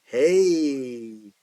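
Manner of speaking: loud, bright sudden idea; gleeful exclaim. Acted. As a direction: blurt it out with a grin. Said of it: "Smile grows bigger".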